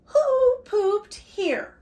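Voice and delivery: very loud, high, slow cry; calling out. A narrator's reading. Emily asks about the scat, loud high drawn-out call. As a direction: belt it out, stretching each word. Story girl calls out the refrain.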